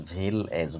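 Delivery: ভিলেজ parted as ভিল, এজ; split in two syllables. Shown as a demonstration. Teacher repeating for understanding, ভিলেজ as ভিল-এজ. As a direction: break ভিলেজ after the ল. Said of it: "ভালো করে বোঝার চেষ্টা করো".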